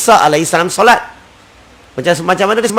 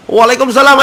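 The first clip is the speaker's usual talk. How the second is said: high, louder reply with a lift at the end; called-back reply; 6 semitones higher, 4 dB louder than usual. Shown as a demonstration. Preacher acts out answering the greeting, high and loud. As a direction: answer the salam back brightly.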